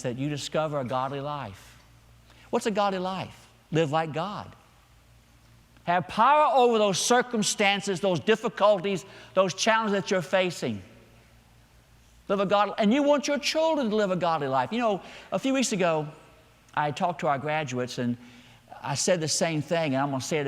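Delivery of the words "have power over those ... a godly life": a touch of preacher's force, voice lifted; emphatic preaching. Real, not acted. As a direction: urge it on the congregation.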